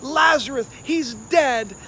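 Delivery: a hammed-up tearful plea from a grieving sister; weepy Martha. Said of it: "she's all weepy".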